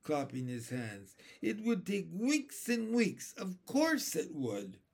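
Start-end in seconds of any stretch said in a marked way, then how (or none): 1.4-4.8 high-pitched, eager agreement; lively, mildly raised storybook voice; excited cry. A narrator's reading. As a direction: exclaim it as a convinced old grasshopper. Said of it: "cried the old green grasshopper".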